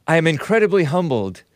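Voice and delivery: lightly put-on New Zealand accent, a mocking read; mock Ardern Kiwi accent. Host quoting Jacinda Ardern's statement, in a half-hearted New Zealand accent. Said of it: "I don't even know how to do a New Zealand accent".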